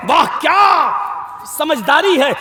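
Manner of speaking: hammed-up wah wah of fake admiration; sarcastic applause for a clever dodge. Mocking praise, louder retake.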